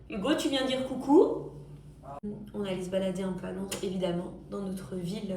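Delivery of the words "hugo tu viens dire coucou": raised voice calling across the room. Real, not acted. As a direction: call out to him. Calling out to Hugo.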